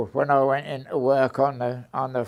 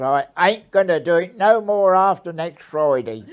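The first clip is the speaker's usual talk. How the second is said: raised, firm retort to the boss; defiant retort; 4 semitones higher, 6 dB louder than usual. Retold or imitated. Young worker quitting tells his boss off, defiantly raised voice. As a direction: hit back at him, louder and higher.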